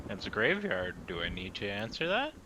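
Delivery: lightly drawled southern voice; southern accent. Acted. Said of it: "Why is Aesir suddenly southern?".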